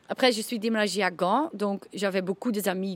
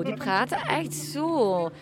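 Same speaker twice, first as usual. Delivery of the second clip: slow Limburg accent; slower than usual. Shown as a demonstration. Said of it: "En dat gaat heel traag zo".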